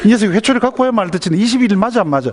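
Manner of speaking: high, rapid mock scolding; hammed-up parental threat, pitch way up; threatening mother. Mother threatening her child with the switch, high-pitched anger.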